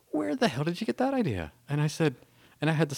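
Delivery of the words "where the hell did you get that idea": put-on incredulous girlfriend.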